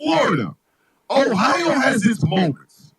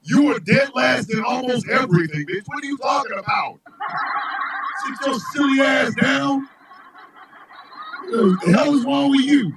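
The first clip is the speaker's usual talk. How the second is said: mock scolding; 3 semitones higher than usual. Scolding Mississippi in mock outrage.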